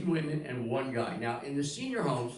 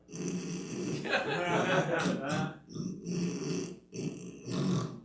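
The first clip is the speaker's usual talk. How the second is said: long mock snores; imitated snoring; 3 semitones higher than usual. Comedian imitates the lone old guy asleep, snoring. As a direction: snore like a man asleep in the corner. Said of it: "he's snoring like this".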